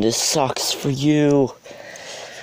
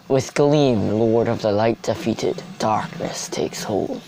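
epic announcer. Shown as a demonstration. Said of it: "I could sound like an epic announcer".

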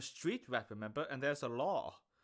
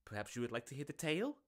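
peddler voice; faster than usual. Acted. Peddler offers story.

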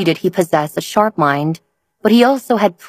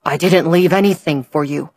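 regretful. Acted. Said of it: "Hugh said regretfully".

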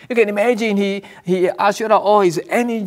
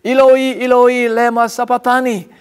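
raised, higher-pitched cry, retold by a preacher; loud cry; 4 semitones higher, 5 dB louder than usual. Preacher voicing Jesus' cry on the cross, loud cry. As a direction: cry it out as scripture quoted aloud. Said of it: "cried out in a loud voice".

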